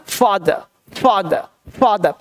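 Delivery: फादर opening on a breath of f friction; vibrating f sound. Shown as a demonstration. Teacher drilling the nukta फ, vibrating f. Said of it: "तो vibration होगा".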